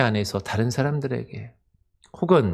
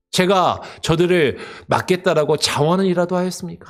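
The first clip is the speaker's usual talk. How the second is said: higher, aggrieved plea thrown at God; complaining Moses; 4 semitones higher than usual. Retold or imitated. Moses protesting to God, higher aggrieved complaint. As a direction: whine like a leader pushed too far. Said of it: "원망하며 불평하고 있는 것이죠".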